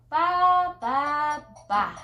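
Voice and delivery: bleats stepping down in pitch; sheep bleats. Shown as a demonstration. Miming a sheep haircut for a toddler, sing-song bleating. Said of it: "says the sheep".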